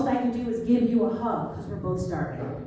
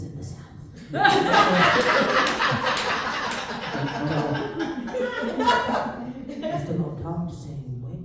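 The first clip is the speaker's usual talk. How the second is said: Esther voice; 3 dB louder than usual. Shown as a demonstration. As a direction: draw it out like a wise mentor. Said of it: "Esther talk like this".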